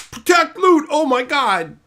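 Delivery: high, loud mock gushing fan. Mocking what Wizards expects fans to feel, high loud gushing. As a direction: ham up the fans' fake excitement. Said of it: "we're supposed to be like".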